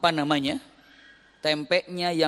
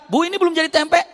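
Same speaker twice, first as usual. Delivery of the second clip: much higher, loud disbelieving question; surprised buyer; 12 semitones higher, 8 dB louder, faster than usual. Retold or imitated. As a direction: ask in disbelief.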